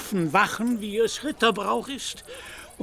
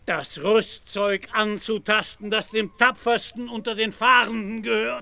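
indignant threat; 3 semitones higher than usual. Acted. Knight warning the drover away from his armour, indignant. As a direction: warn him off the armour.

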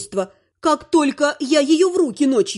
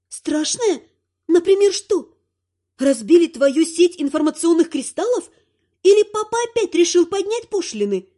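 higher, teasing wife; mocking; 3 semitones higher than usual. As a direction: poke fun at him lightly. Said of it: "насмешливых слов жены". (насмешливо)

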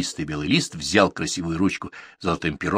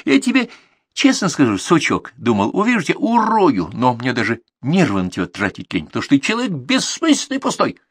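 loud, high-pitched tirade; angry rant; 7 semitones higher, 4 dB louder than usual. Acted. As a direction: pour scorn on him at the top of the voice. Editor abusing his writer.

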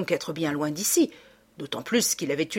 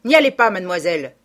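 urgent warning; 8 dB louder, faster than usual. A narrator's reading. Servant urgently warns her.

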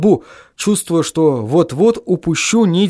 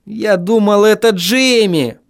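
high, drawn-out groan of dismay; plaintive high moan; 7 semitones higher, slower than usual. A narrator's reading. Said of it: "простонал я".

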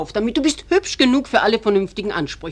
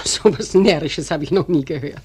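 amused laugh through the words; mother laughing off her daughter's silly question; 3 semitones lower, 4 dB louder than usual. Acted. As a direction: brush it off with a laugh.

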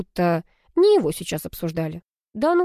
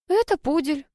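simple-hearted, higher and light; простодушно; 9 semitones higher than usual. A narrator's reading. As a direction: answer innocently, as if obvious. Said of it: "простодушно ответила я". (простодушно и легко)

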